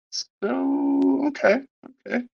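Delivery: high, sarcastic so okay; mock surprise. Real, not acted. Reading the news aloud, a high sarcastic okay. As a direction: feign being impressed.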